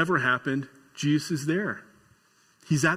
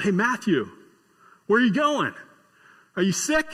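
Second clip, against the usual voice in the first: higher mock call across the street; 4 semitones higher than usual. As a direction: shout after a friend walking off. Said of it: "he just yells out".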